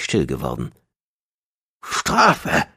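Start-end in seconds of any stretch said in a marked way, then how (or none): 1.8-2.7 high, strained gasp. A narrator's reading. Gong still demands punishment though cowed, gasping. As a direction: squeeze the word out high, short of shouting. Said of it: "keuchte er".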